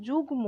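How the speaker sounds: যুগ্ম as "jug-mo", m fully sounded; ম pronounced. Shown as a demonstration. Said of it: "ময়ের উচ্চারণটা আমরা অবশ্যই উচ্চারণ করছি". (যুগ্ম, ম স্পষ্ট উচ্চারণ করে)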